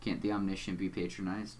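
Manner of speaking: low, measured, quiet villain voice; deep Doc Scratch voice. Acted. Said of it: "a really deep voice".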